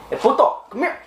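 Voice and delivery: high-pitched cholo calling out. Acted. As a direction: call him over, high and cocky. Calling another persona over.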